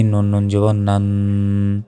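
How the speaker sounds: নান with a long nasal hum on the final n; ghunnah. Shown as a demonstration. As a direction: hold the n of নান humming through the nose. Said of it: "ওয়াজিব গুন্না". (নান-এর নুনে গুন্না করে টেনে পড়া)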